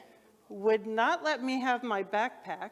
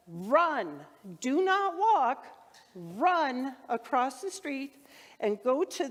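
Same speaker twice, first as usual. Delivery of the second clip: urgent; 2 semitones higher, slower than usual. Retold or imitated. Official urging her to hurry.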